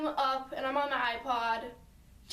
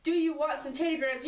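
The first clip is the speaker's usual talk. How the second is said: a slightly more puzzled ask; more confused. Retold or imitated. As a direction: ask again, a bit bewildered. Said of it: "a little bit more confused this time".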